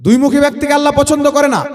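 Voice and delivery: পছন্দ করে না called out loud and high, Allah hit hard; preacher calls out the correction to the crowd, loudly. Shown as a demonstration. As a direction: raise the voice and call out the whole line to the crowd. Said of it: "জোরে বলে".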